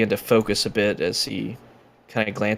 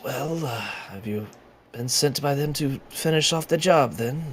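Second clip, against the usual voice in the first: a bit of a croak in the throat; 4 semitones higher than usual. Narrating a tabletop scene, voicing a man at an open cell door, croaking voice. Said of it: "in a bit of a croaking voice".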